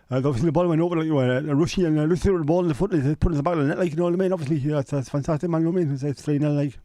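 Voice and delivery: high, loud mumbly Geordie footballer; Peter Beardsley impression. Streamer mocking Peter Beardsley's interviews, high and loud. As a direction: talk like there's a hot potato in your mouth. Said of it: "Peter Beardsley sounds like he's got a hot potato".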